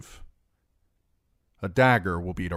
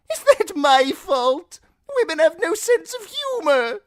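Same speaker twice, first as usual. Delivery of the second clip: jester voice; 11 dB louder than usual. Acted. The fool refusing Timion, high and mocking. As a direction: toss it back like a cackling jester.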